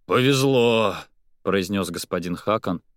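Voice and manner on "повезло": relieved. Acted. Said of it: "радостное облегчение".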